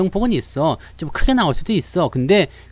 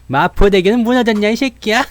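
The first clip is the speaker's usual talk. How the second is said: louder, menacing movie-gangster growl; tough gangster line; 6 semitones higher, 5 dB louder than usual. Shown as a demonstration. Streamer acting a gangster film line for viewers, louder menacing threat. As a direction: deliver it like a film thug threatening someone. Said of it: "그런 연기가 있는 거지".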